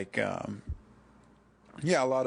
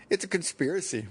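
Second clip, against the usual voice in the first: mock British, pitched up; British accent; 7 semitones higher, faster than usual. YouTube guy declaring a conspiracy, mock British accent. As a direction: imitate a British conspiracy theorist. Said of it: "a guy with a good British accent".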